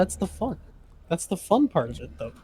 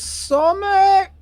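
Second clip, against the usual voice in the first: drawn-out exclamation; 11 semitones higher, 6 dB louder than usual. Acted. Joke exclamation.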